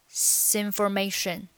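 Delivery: "sinformation" with a hissed s leading in; linked syllable. Shown as a demonstration. Teacher showing linking, "sinformation" as one word. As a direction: start "information" on the s borrowed from "this". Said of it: "那变成了".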